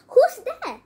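high, loud challenge; calling out. A narrator's reading. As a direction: call out sharply to an unseen stranger. Blind man startled by unseen arrival.

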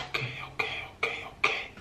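whispered, soft okays to settle herself; calming down. Real, not acted. After gushing over the cheese, whispering herself calm. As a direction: breathe out and whisper yourself calm.

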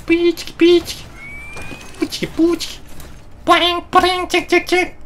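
high squeaky mechanical effects; mock robot noises. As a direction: chirp out suit-assembly noises by mouth. Voices suit-up sound effects.

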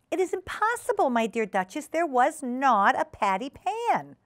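high, emphatic prim denial; insistent hostess Ribby. Acted. Ribby contradicting panicking Duchess, insistent. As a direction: deny it firmly, drawing out the end.

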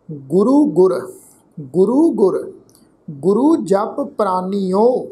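drawn-out, measured chant of the verse; scripture read like a path; slow scripture recitation. Acted. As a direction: intone each word slowly, reverently.

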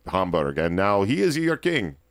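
clumsy put-on German accent that drifts into Russian; bad German accent. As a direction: fake a German herald with a failing German accent. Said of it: "I can't do a German accent".

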